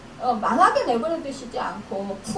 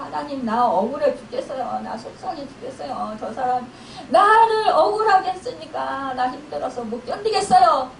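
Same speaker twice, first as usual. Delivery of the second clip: wailing prayer. Acted. Wronged believer crying out to God in prayer, mock wailing. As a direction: plead to God as if lamenting, without real sobs. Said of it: "이러면서 통곡하면서 우는 거예요".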